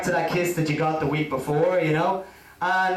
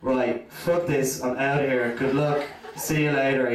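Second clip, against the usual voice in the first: fed up exit; 5 semitones lower than usual. Retold or imitated. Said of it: "I'm just going".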